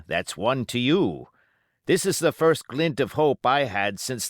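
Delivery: a hint of a sly pirate talking close; Silver, pirate voice. Silver confiding to Jim.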